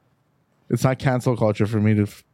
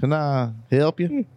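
slow, lightly imitated coworker accent; Hank's accent; 3 semitones higher, slower than usual. Coworker greeting a caller on the shop phone, imitated accent. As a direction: draw it out in a coworker's mimicked accent. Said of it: "I'm making his accent".

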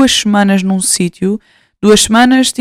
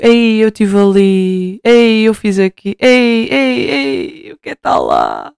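longing inner voice; slower than usual. Retold or imitated. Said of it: "Eu fico".

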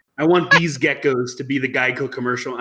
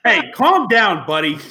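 laughing; 3 semitones higher, 5 dB louder, slower than usual. Real, not acted. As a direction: laugh it out while calming him. Laughing retort to insult.

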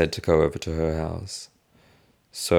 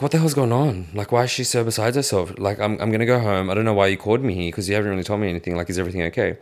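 higher at first, easing, quick demands for answers; retold agitated questioning; 4 semitones higher, faster than usual. Retelling questioning the family friend about mum, agitated. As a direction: fire off bewildered questions, settling toward the end.

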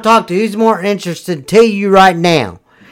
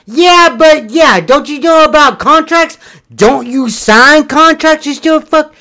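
mocking imitation; 5 semitones higher than usual. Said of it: "I know the law goes".

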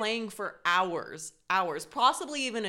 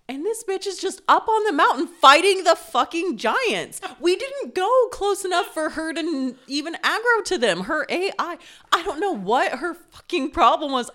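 loud, high, laughing through the words; can't stop laughing at the memory; laughing while telling; 10 semitones higher, 9 dB louder than usual. Real, not acted. Laughing while telling the Lydia story.

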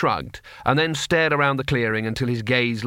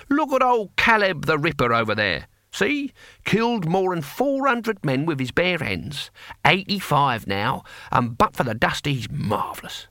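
put-on Cohen, old barbarian; 6 semitones higher than usual. A narrator's reading.

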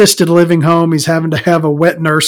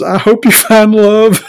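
deadpan father line; 6 semitones higher, 3 dB louder than usual. Retold or imitated. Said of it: "and goes".

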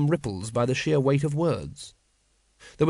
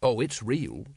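bitter; 2 semitones lower, slower than usual. Acted. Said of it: "said Vimes bitterly".

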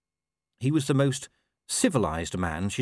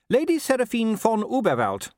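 high-pitched, chatty wife; lilting, high wife's voice; Sybil; 12 semitones higher, 3 dB louder than usual. A narrator's reading. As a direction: play a well-meaning wife in a high voice. Voicing Sybil in story narration.

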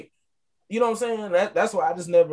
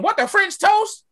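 high, slow, hammed-up gasp of disbelief; mock shock; 3 dB louder than usual. Mocking parents who treat French as a swear word, slow, high, mock-shocked. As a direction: stretch it out like you can't believe the word. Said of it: "that's like me saying".

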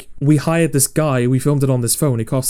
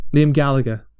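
Manchester accent. Shown as a demonstration. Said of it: "They sound like a singer".

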